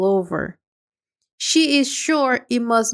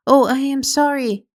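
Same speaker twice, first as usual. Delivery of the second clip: quick cry; 3 semitones higher, faster than usual. Acted. Alice quickly apologizing to the frightened mouse, hurried cry. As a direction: blurt the apology out fast. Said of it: "cries Alice quickly".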